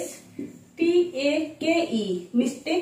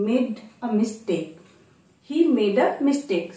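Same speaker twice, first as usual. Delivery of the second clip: slow; much slower than usual. Shown as a demonstration. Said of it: "তো বলবো".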